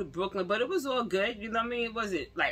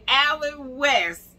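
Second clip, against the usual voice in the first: awed naming; 5 semitones higher, 6 dB louder, much slower than usual. Retold or imitated. Recognizing the actor.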